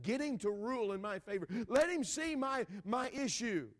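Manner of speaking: rich man's bribe. Retold or imitated. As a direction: lean in like a briber whispering a deal. Rich man bribing the judge's assistant.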